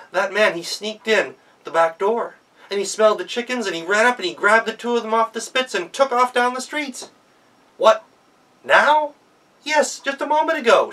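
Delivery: high, loud and hurried, hammed-up; breathless tale. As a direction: Gretel tells the master the guest stole the chickens. Gretel's false tale, master's shock.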